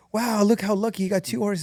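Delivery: mock amazement. Villager marvels at the farmer's two horses, mild mock amazement. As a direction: lightly voice an impressed onlooker.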